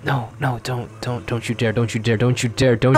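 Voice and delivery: rising frantic don't you dare; pleading harder with each repeat; anguished denial. Real, not acted. Pull result about to show.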